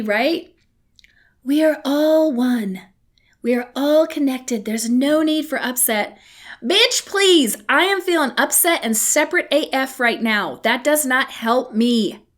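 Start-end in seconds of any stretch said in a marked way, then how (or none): 1.4-6.2 a hint of a preachy spiritual type; mock spiritual guru. Mocking spiritual community, a hint of a serene guru. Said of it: "pet peeves about the spiritual community". 6.6-10.6 a touch of outraged sass; sassy retort. Acted. Answering the guru, sassy and fed up. Snapping back at spiritual platitudes.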